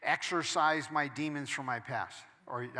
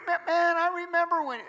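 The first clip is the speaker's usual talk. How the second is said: much higher and louder mocking whine; mocking gossip; 14 semitones higher, 8 dB louder than usual. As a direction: ham up a nosy busybody. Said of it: "Don't allow people to keep bringing up things".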